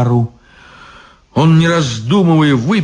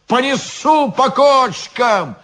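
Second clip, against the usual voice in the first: put-on drunken threat; 5 semitones higher than usual. Drunk guard threatening maestro.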